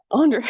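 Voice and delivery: Andrea with a broad, loud AH at the start; first vowel as AHN. Shown as a demonstration. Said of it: "I'm like saying both".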